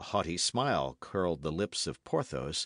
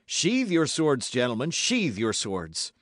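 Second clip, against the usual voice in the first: louder, slow urgent command; urgent warning; 6 semitones higher, 6 dB louder than usual. A narrator's reading. Musketeers warn the duellists as guards arrive, urgently. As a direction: hurry them to put swords away.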